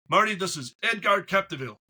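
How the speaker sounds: mock-solemn imitation of an accented caller; Edgard Capdeville. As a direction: imitate the CEO's accent, not very well, with grave emphasis. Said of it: "I can't do his accent very well".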